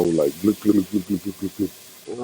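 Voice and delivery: throaty gluk gluk like a lion's growl; rumbling motorbike-like gluk noises; guttural growl imitation. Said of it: "like guttural growl".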